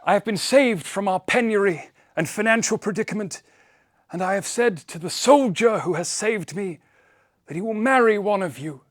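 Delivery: put-on high old man's voice bubbling with laughter; giddy old man. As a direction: offer your daughters with giddy glee. Father explains.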